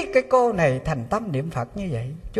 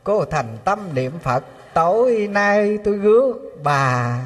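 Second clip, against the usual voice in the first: statue speaking; 5 semitones lower than usual. Retold or imitated. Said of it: "Ở trên tượng Phật nói".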